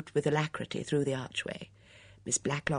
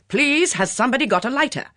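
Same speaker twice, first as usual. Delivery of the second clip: loud, raised, desperate appeal; agitated cry, pitched up; urgent plea; 9 semitones higher, 8 dB louder than usual. Acted. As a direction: implore the room for a light.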